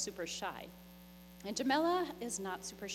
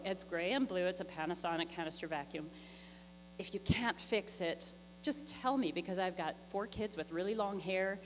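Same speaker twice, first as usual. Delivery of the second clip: begging. Retold or imitated. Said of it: "I have to resort to begging now".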